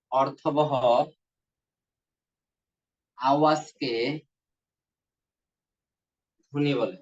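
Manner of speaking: phrase by phrase, long pauses between; slow dictation. Real, not acted. Teacher dictating a definition for students to write, slow dictation. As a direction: dictate it in small chunks for note-takers.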